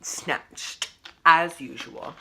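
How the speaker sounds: slow sassy drawl; sassy sign-off. Acted. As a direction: stretch it out with sass. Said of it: "as always".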